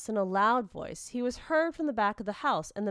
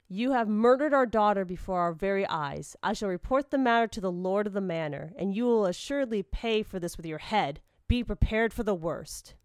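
forceful, grave condemnation; stern accusation; 4 dB louder than usual. Acted. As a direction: act a wronged father pronouncing a threat. Father condemns his daughter's killer.

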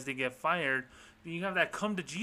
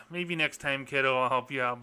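condescending parent. Retold or imitated. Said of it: "Bank of America's like".

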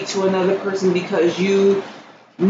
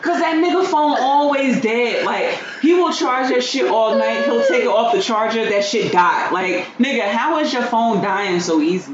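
exasperated rant; 5 semitones higher than usual. Real, not acted. Ranting about Ed's phone.

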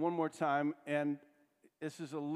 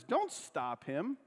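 slow firm command; 2 semitones higher, slower than usual. Retold or imitated. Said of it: "he comes out and he says".

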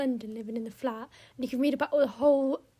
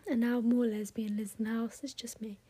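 whispered aside; 3 semitones lower, 5 dB quieter than usual. Real, not acted. Wry aside about her flat.

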